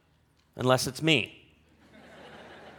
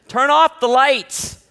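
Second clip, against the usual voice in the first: much higher and louder, slow, each word hammered; booming rule; 9 semitones higher, 9 dB louder, much slower than usual. Shown as a demonstration. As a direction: proclaim it like a decree. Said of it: "what would be the third one".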